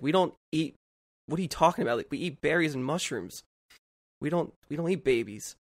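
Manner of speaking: mild creature voice, put out; indignant Sasquatch. Retold or imitated. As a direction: play the offended creature defending itself. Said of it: "And he's like".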